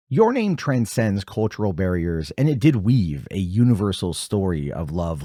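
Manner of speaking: measured, formal read-out; scripted narration. Acted. Host introducing his final thoughts, measured formal reading. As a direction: read it like a prepared episode intro.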